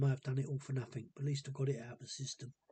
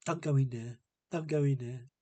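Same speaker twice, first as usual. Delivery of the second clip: retold louder snapping at a cat; mock telling off the cat, louder; scolding the cat; 5 dB louder than usual. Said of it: "she even had to go at her own cat".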